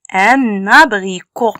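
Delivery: "Un abricot" joined by a sounded n; liaison. Shown as a demonstration. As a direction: let the n of "Un" start "abricot". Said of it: "on met la liaison". (« Un abricot » lié par le son n)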